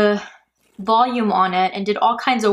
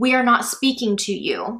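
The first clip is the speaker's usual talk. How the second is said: put-on, very stern, scolding tone. Describing what a man on a track is thought to say, imitating a stern voice. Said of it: "in a very stern voice".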